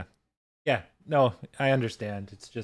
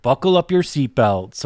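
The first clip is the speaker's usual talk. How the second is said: mock ring announcer; 2 semitones higher, 6 dB louder than usual. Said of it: "he had all these sayings".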